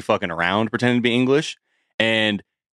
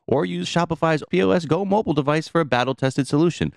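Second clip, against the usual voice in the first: sponsor ad read. Acted. Host reads sponsor ad.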